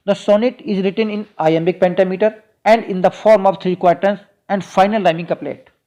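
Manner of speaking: slow, deliberate dictation of an English note; measured note-dictation voice. Acted. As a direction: read it out word by word for students to copy. Reads English lecture point slowly.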